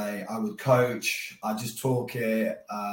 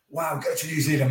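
a touch of an excited dad, slightly raised; mock delight at the news; dad thrilled; 4 semitones higher than usual. Dad hearing about the New Zealand offer, lightly excited. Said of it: "And my dad was like".

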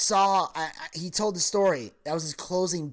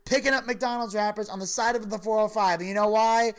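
emphatic punchline; 5 semitones higher than usual. Retold or imitated. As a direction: deliver the closer with mock indignation. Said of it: "Tom Arnold said".

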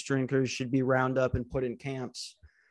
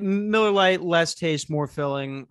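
ad slogan voice; 3 semitones higher, 4 dB louder, slower than usual. Pretend. Quoting beer slogan.

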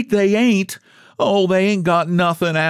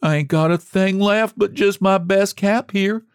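high, self-pitying lament; wailing; 11 semitones higher than usual. A narrator's reading. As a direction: moan woefully, drawing out each oh dear. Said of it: "clutching her box and wailing".

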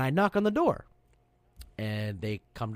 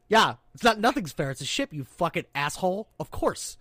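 a touch of incredulous scorn, higher at first; mock scorn; 4 semitones higher, 4 dB louder than usual. Sailor mocking a crewmate's fairness complaint, mock scorn. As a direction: scoff like a seasoned sailor.

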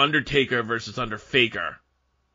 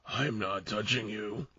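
put-on pestering child; 4 semitones lower, 10 dB quieter than usual. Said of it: "doing The Undertaker and Kane as children".

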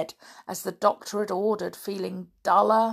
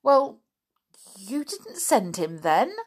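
gasped question. Acted. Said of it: "gasped Flip".

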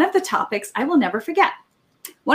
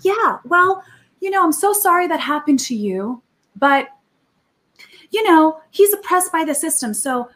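a lightly voiced, dismissive group leader; mocking the leaders; 2 semitones higher than usual. A speaker mocking the leaders' answer to the girl, lightly voiced and dismissive. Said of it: "They said".

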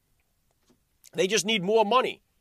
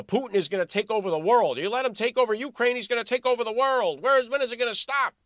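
mocking alarmist voice; 5 semitones higher than usual.

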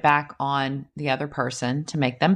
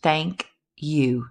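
slow, earnest thank you; sincere thank you. Shown as a demonstration. Teaching how to take a compliment, sincere. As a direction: say it and mean it. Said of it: "Two words".

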